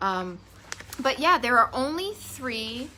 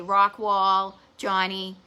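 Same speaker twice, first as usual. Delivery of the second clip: light joking Boston accent; a touch of Boston accent, teasing; 4 dB louder, much slower than usual. Shown as a demonstration. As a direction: play up the Boston vowel in rock. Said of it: "that's when my Boston accent comes out".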